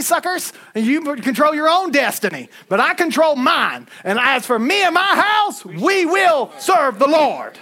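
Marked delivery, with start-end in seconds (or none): 4.0-7.6 full-force preaching. Real, not acted. Preacher declares his family's vow to the congregation, drawn-out shout. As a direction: stretch "we will serve the Lord" slowly and shout it.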